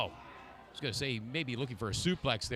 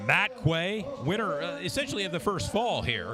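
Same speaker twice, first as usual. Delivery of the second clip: winner announcement; 4 semitones higher than usual. Real, not acted.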